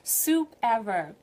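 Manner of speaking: a hint of a grateful grandchild praising grandma's soup; delighted eater. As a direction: rave about grandma's stew. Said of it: "you're just cooking like".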